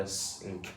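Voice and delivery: s and k as two bare phonics sounds; separate consonant sounds. Shown as a demonstration. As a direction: give s as a hiss and k as a click, apart. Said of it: "consonant sounds".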